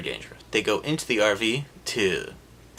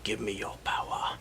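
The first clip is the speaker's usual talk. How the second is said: mock incantation; 2 semitones lower, 6 dB quieter than usual. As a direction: chant it like a cheesy spell. Witch casting a spell.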